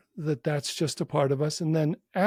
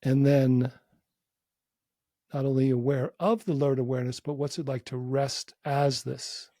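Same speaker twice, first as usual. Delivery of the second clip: unhurried inquiry with long pauses between phrases; measured meditation-teacher delivery; guided meditation. Real, not acted. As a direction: guide a listener gently inward, leaving space.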